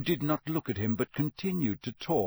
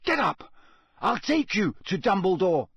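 much higher, louder, clear command; boy urging a dazed man; 7 semitones higher, 4 dB louder than usual. A narrator's reading. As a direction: speak up so he hears. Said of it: "loudly and clearly".

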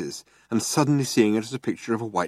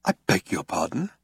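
lower, quiet polite question; 4 semitones lower, 4 dB quieter than usual. A narrator's reading. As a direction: ask it very politely. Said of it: "rather politely".

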